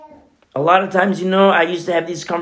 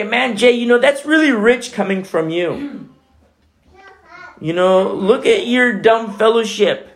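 higher-pitched scoffing objector; mocking challenge; 4 semitones higher than usual. Scoffer putting down the preacher's small fellowship, mocking. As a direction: needle the preacher as a doubter would.

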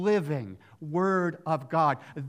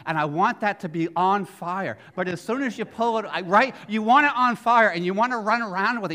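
fast, louder and higher, bubbling over; excited storytelling; 3 semitones higher, 8 dB louder than usual. Real, not acted. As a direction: relive the thrill of a stick on fire. Excited story of kids with sticks.

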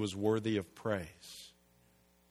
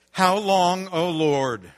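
pleading lament; 4 semitones higher, 6 dB louder than usual. Acted. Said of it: "Here's what the psalmist says".

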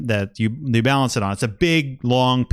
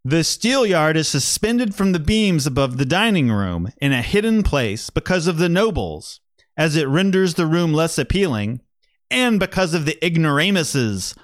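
lightly put-on voice reading an old journal; a hint of a learned old-world author; a bit of a voice. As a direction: read the quote with measured, mildly pompous phrasing. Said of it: "I'll just do a little bit of a voice".

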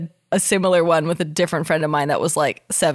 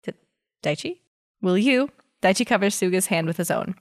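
story narration. Acted. Reads fanfic aloud.

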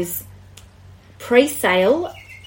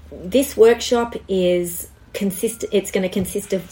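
frog in throat. Real, not acted. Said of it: "I've got a tickle in my throat".

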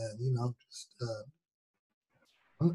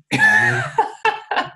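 laughing; 9 dB louder than usual. Real, not acted. Laughing at own joke.

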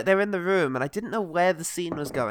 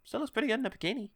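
leaning in to whisper; 7 semitones higher, 8 dB quieter, faster than usual. Real, not acted. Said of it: "Did you just whisper "not".

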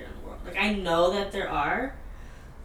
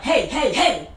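retold shout; 4 semitones higher, 7 dB louder, slower than usual. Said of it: "he screams out".

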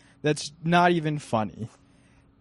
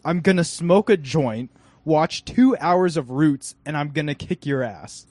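louder, hammed-up movie character line; quoting Mirror Man; 5 dB louder than usual. Retelling Mirror Man's joke, mildly hammed-up. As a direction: play up the character's gripe. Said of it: "And Mirror Man says".

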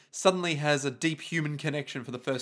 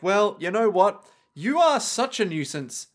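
higher, emphatic mock exasperation; fed-up scolding; 4 semitones higher, 4 dB louder than usual. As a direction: tell off a pest, hammed-up. Acted scolding by mobsters.

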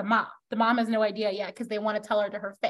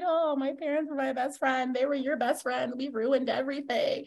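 soft, lightly acted lament; mock sad; 5 dB quieter than usual. Daughter grieving the rift with her parents, mock sad. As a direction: voice her regret quietly, a touch plaintive. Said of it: "She's sad".

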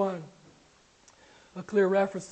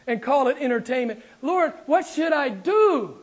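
earnest prayer; 3 semitones higher, 4 dB louder than usual. Acted. Preacher voicing Paul's prayer.

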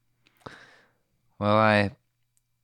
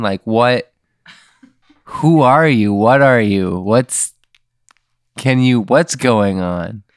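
freaked out; 3 semitones higher, 6 dB louder than usual. Acted. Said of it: "I'm like".

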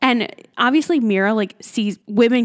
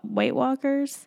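slow, hushed dramatic repeat; ominous echo; 4 semitones higher, 4 dB quieter, slower than usual. Pretend. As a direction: say it like a spooky revelation. Echoing partner, dramatic ominous repeat.

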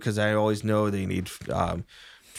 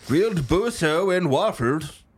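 vendor call; 7 semitones higher, 4 dB louder than usual. Acted. Street vendor calling out.

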